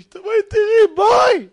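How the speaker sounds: very high, loud acted shout; ecstatic calling. Newly rich husband summons his wife, ecstatic calling. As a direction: call out, beside yourself with joy.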